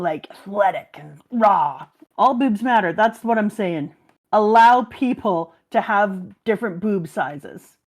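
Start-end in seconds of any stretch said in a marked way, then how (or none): 0.0-1.9 husky whispered aside; whispering. Real, not acted. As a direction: breathe it out as a whisper. Sultry aside about the character.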